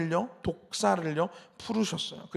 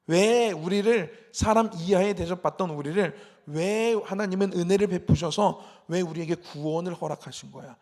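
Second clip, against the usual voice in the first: acted complaint; 3 dB louder than usual. Israelites questioning why God rescued them, mock complaining. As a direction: imitate a people grumbling in protest. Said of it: "이렇게 불평하는 거예요".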